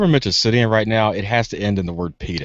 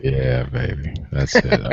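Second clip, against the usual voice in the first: low, smooth radio DJ croon; 6 semitones lower, much slower than usual. Pretend. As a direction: play the suave late-night DJ. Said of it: "you sound like a D J now".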